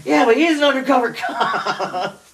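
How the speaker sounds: high, slow mock yell; imagined drunken heckle. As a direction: holler it like the drunk friend in the background. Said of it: "like, in the background being like".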